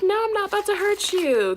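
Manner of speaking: very high-pitched mock protest; retold protest. Retelling her reply to the scared nurses, high exasperated protest. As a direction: throw the voice way up, re-enacting disbelief.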